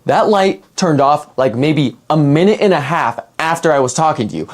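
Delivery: low, earnest imitation of a friend; dead serious. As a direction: drop the pitch and insist, no joking. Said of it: "he just gets dead serious".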